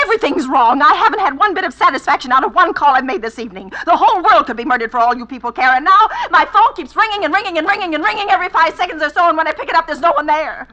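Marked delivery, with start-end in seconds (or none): 0.8-9.3 indignant tirade. Acted. Furious complaint to operator.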